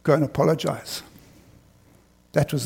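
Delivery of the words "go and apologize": inner voice softly. Retold or imitated. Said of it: "in my heart says".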